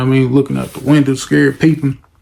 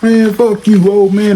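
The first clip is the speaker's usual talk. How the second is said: higher, dismissive brush-off; rude young thug; 8 semitones higher, 4 dB louder than usual. Retold or imitated. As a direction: push past him. Brothers cursing the officer.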